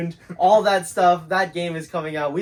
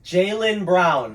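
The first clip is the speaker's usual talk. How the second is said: loud, slow call over headphone music; loud guess; 5 semitones higher, 8 dB louder, much slower than usual. Real, not acted. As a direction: shout it because you can't hear yourself. Guessing with earbuds in.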